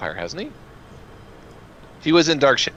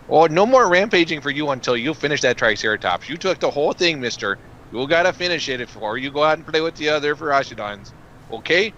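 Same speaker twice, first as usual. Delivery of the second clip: Minnesota mom voice. Acted. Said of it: "Melvin, did you grow up in the Midwest?".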